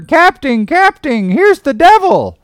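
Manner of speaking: very high, loud alarmed shriek; bumpkin's yell. A narrator's reading. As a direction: holler for help like a frightened bumpkin. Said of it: "yelled the bumpkin".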